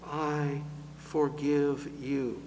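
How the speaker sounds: soft and slow, a gentle absolution; tenderly. Acted. Preacher voicing God forgiving the congregation, tender and hushed. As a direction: let the forgiveness land softly. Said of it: "God says tenderly".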